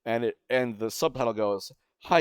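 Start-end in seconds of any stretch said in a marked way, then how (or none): 2.0-2.2 long, held mock yell on "Hi"; imitated battle yell. Reading out how the subtitle goes, imitated drawn-out yell. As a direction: stretch "Hi" out into a sustained cry. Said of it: "like, yell".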